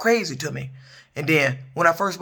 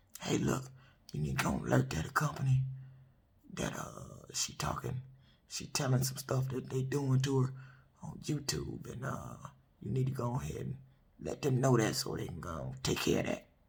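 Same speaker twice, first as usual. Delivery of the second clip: deep, man-like, very low, breathy whisper; 4 semitones lower, 14 dB quieter than usual. Acting out someone urging another person to alert her company, in a very low voice. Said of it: "So that's about as low as I can go".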